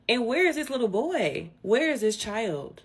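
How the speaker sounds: incredulous. Real, not acted. Demanding where the child is.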